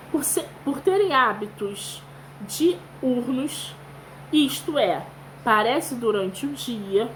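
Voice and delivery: careful, measured read-aloud voice. Acted. Teacher reading a text aloud to children, measured.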